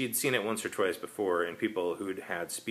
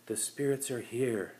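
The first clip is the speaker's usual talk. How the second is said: hypnotic; 4 semitones higher, slower than usual. Acted. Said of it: "hypnotic voice".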